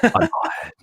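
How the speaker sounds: put-on radio DJ introduction; mock on-air presenter voice. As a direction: introduce yourself like a smooth radio host. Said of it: "With your radio voice?".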